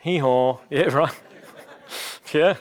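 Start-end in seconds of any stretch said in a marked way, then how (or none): 0.0-0.6 mock donkey hee-haw; a light playful donkey bray. Shown as a demonstration. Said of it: "when I say the word donkey".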